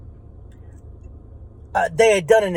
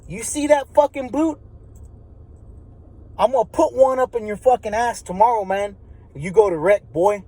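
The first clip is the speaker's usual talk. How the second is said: higher-pitched retold threat; the neighbor threatening him with the boot, mock yell; 4 semitones higher than usual. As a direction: call it down menacingly. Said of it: "And he says".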